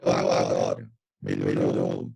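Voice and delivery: deep distorted robotic sound; glitchy robot voice on the call. Real, not acted. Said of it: "você tá parecendo um robô".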